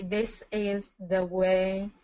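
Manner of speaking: slowly, each word on its own; slow careful try. Shown as a demonstration. Learner practising slowly for the tutor, careful. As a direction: feel your way through it slowly. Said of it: "I don't know how to pronounce that smoothly".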